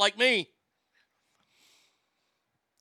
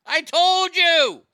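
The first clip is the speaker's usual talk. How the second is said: higher, louder, slow drawn-out "I told you!"; mock yell; 9 semitones higher, 8 dB louder, much slower than usual. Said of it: "Straight Fire says".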